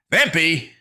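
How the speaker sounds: high, loud shout; warning cry. A narrator's reading. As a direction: yell the name as a warning. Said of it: "raised a hand to warn her".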